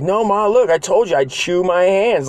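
put-on high insistent kid voice; whiny kid protest. Robbie insisting to his mom, high whiny protest. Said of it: "and he's like".

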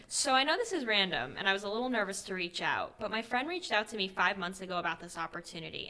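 put-on gushing, lilting Valley Girl; Valley Girl sing-song, lively and emphatic. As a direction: read it like an over-friendly Valley Girl pitch. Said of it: "like, a Valley Girl voice".

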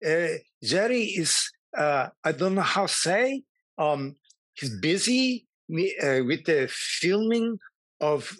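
put-on lightly done Eastern European accent, hesitant; playing the confused foreigner in a mild fake accent; Milos accent. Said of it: "I did talk Milos all week".

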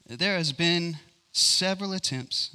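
big, high-pitched opening line; reading aloud. Shown as a demonstration. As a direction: launch grandly into the reading. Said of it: "I'm gonna read with an accent".

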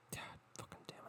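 barely audible exasperated whisper; voiceless, defeated muttering; whispered curse. Real, not acted. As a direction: swear under your breath.

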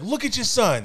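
high-pitched, insistent scolding; accusing mom. Retold or imitated. Mom complains to dad about their son, exasperated. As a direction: imitate an exasperated mother.

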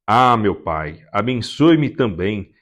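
understated tearful plea to the father. Acted. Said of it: "Esaú chorou em alta voz".

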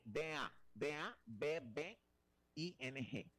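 spelled slowly, letter by letter; spelling out. Shown as a demonstration. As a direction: spell it out at a slow, deliberate pace. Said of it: "cómo se escribe esa última".

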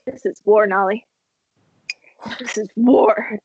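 hammed-up threat while backing away; a grudge-holding character declaring war; mock declaration of war. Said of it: "He goes".

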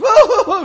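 high, loud mock wail; hammed-up "woo-woo" crying; imitated wailing. Preacher imitating an upset lady on the phone, mock wailing. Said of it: "She just cried".

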